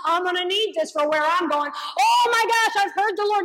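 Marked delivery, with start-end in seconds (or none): 1.8-3.4 awed exclamation. Acted. Elijah realizing.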